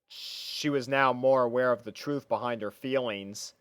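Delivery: ordinary delivery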